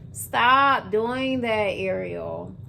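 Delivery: slow, drawn-out telling-off; mock scolding, each word dragged; self-reprimand. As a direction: stretch out a firm order to yourself. Acted order to herself.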